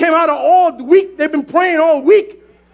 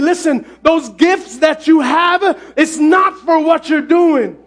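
slow, emphatic voice of God through a woman; transformed prophetic voice. Retold or imitated. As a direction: relay a divine command with deliberate, building weight. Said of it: "her voice transformed and it got deep".

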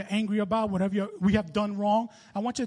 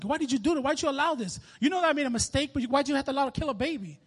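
mildly angry retold plea to God; a touch of aggrieved anger; 4 semitones higher, faster than usual. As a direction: question God with restrained, higher-pitched protest. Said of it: "I was so angry".

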